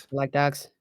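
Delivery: light put-on film Irish accent; Brad Pitt's Irish accent. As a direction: toss it off in movie-style Irish. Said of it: "The Brad Pitt accent".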